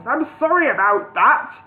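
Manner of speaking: a lightly voiced loud booming wizard. A narrator's reading. Wizard apologises to Bingo in a booming voice. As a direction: boom the apology like a grand wizard. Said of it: "in a booming voice".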